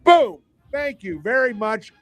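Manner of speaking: big, cocky exclamation; triumphant exclamation. Real, not acted. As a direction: punch it out like a winning bet. Crowing over his sure bet.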